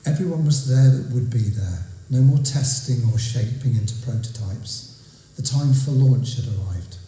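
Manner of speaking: measured recital, phrase by phrase; deliberate, evenly paced spoken verse; poetry reading. Acted. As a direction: recite the opening of a narrative poem. Reads own poem aloud.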